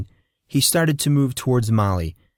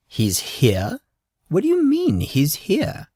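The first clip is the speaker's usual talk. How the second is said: shocked disbelief; 9 semitones higher than usual. A narrator's reading. Shocked parent gossip.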